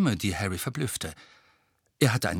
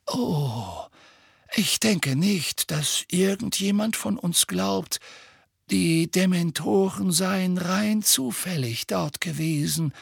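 calm; 8 semitones higher than usual. Acted. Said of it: "sagte Dumbledore gelassen".

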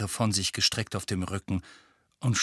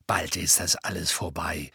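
encouraging; 5 semitones lower than usual. A narrator's reading. Mr Weasley reassures nervous Harry before the hearing, encouraging. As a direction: comfort the boy gently. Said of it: "sagte Mister Weasley aufmunternd".

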